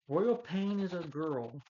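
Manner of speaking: high, drawn-out mock disbelief; stunned retold exclamation. Retelling a hero's discovery of the villain, mock astonishment. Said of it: "He's like".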